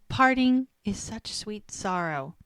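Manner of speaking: slow, hammed-up theatrical recital; a playful dramatic Juliet line; mock Shakespeare. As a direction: declaim it like a stage Juliet, half joking. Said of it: "she's quoting Shakespeare".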